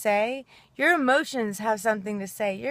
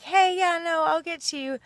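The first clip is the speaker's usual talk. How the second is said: brush-off server; 6 semitones higher than usual. Retold or imitated. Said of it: "Or even like".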